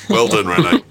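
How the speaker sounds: high, sarcastic well done; mock praise. Host mocking Rene Ritchie for spinning delays, high sarcastic praise. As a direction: overdo the praise as a joke.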